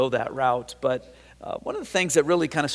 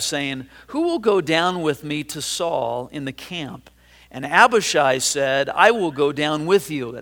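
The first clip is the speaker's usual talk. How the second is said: scripture reading. Acted. Pastor reads First Samuel to his congregation, measured. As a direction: read the verses out to the congregation.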